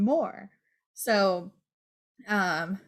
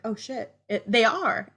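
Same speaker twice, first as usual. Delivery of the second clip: laughing realization. Retold or imitated. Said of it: "I'm like".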